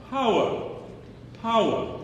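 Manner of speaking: "Power" said as "pow-uh", dropping the R; power without R. Shown as a demonstration. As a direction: say "Power" with no R at the end. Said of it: "Just say it".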